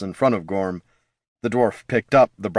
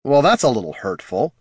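indignant; 3 semitones higher than usual. Acted. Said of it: "indignant informant lost the gravel".

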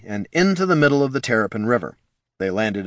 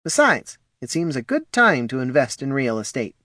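lightly raised character voice; higher voice, matter-of-fact; Polo's voice; 4 semitones higher than usual. Acted. Polo musing about real estate, lightly higher.

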